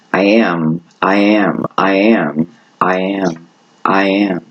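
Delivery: slow steady I am mantra; meditative repetition. Shown as a demonstration. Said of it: "Start to listen to that".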